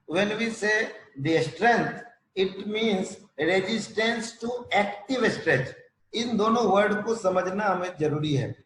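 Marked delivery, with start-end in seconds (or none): 0.1-5.7 measured, slow delivery of a definition; slow dictation. Real, not acted. Lecturer contrasting strength with tone for students, slow dictation. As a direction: spell out the definition slowly for note-takers.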